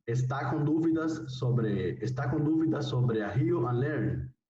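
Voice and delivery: "dúvidas" stretched slowly; slow Portuguese reading. Shown as a demonstration. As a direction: read the ad line slowly for the class. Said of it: "ejemplo leído". (lectura lenta en portugués)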